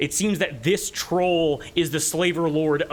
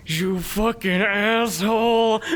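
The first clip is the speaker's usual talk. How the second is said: slow, higher growled insult; troll cursing; 7 semitones higher, 3 dB louder than usual. Acted. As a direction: spit the insult out slowly. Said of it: "Looks and, and goes like".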